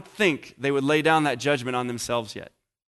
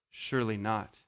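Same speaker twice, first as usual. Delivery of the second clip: soft, dropped low in shock; horrified realization; 4 semitones lower, 7 dB quieter than usual. Retold or imitated. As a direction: let the horror dawn. Leaders realizing, said again.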